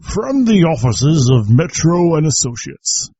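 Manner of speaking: high, slow, hammed-up British lawyer accent; terrible British accent. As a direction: read the letterhead like a stuffy British solicitor, badly. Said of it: "my terrible British accent".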